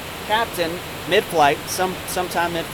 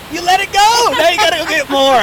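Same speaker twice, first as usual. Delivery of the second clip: higher, louder mock scolding; teasing captain; 10 semitones higher, 7 dB louder than usual. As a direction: scold her playfully like a prankster captain. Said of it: "He's like".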